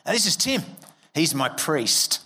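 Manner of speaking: lightly voiced mate showing off his priest; imitating Gav. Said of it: "he'd go".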